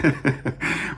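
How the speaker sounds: short breathy chuckle breaking off the sentence; brief chuckle. Real, not acted. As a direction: let a small laugh slip out mid-story. Amused mid-story while recalling eye contact.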